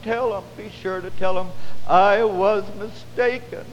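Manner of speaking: lightly voiced dying atheist; dying man's plea. Preacher echoing a dying man's message to his daughters, lightly acted plea. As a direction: retell his urgent last message with emphasis. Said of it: "I could just hear that man saying that".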